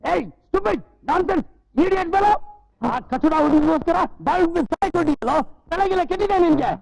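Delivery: high, sharp scolding of a fool. Acted. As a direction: tell off the idiot fellow. Scolding him for jumping in well.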